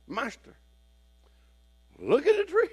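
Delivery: very high excited cry; excited call. Retold or imitated. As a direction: call out the discovery in high delight. Disciples calling out.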